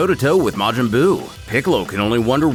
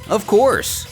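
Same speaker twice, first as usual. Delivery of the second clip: mildly cheerful, higher-pitched answer; happy reply; 8 semitones higher than usual. A narrator's reading. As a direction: agree happily with a small lift in pitch. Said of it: "happily responding".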